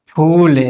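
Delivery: long drawn-out "फूल". Shown as a demonstration. Teacher showing the long ū matra, "फूल" held long. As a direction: hold the ū in "फूल". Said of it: "थोड़ा देर तक करेंगे".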